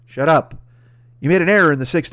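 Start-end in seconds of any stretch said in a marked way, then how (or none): 0.0-0.5 loud repeated shout. Acted. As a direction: yell him down. Yelling at player.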